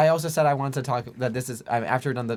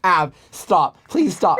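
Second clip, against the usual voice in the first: louder, pleading "stop" that jumps higher; 4 semitones higher, 4 dB louder, much slower than usual. Retold or imitated. Friends plead with Av at dinner, loud and pleading. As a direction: beg him to quit, half laughing.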